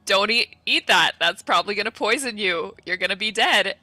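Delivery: exasperated warning, played for fun; mock warning. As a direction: imitate a friend loudly warning them off. Acted warning in a retold quarrel.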